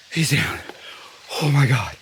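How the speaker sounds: breathless whisper, voice barely there; real stunned whisper after the shot; excited whisper. Real, not acted. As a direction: whisper it in shock. Hunter just shot a buck.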